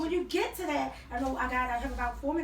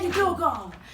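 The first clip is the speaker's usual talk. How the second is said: humorous parent reply; 4 dB louder than usual. Acted. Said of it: "you gotta use a little humor".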